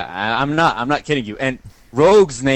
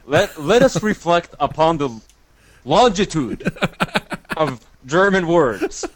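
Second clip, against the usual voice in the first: mock solemn; 2 semitones higher than usual. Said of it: "a very serious moment in our lives".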